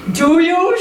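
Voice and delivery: demanding. Retold or imitated. Organizer confronting Brené, loudly demanding. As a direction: push the question at her. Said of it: "she demanded".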